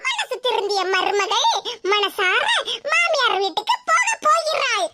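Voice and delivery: teasing headline-style proclamation with laughter; slow, giggling mock ceremony; mock announcement. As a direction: announce it like grand news to mock her. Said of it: "கிண்டல் அடிக்கிற வேலையெல்லாம்".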